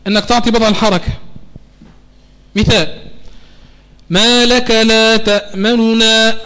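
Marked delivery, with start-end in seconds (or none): 4.1-6.4 ما لك لا تأمننا very slow with the nun's vowel only hinted; rawm recitation. Shown as a demonstration. Teacher recites the verse to demonstrate rawm, very slow. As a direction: recite تأمننا barely touching the damma on the nun. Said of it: "هذا اسمه روم".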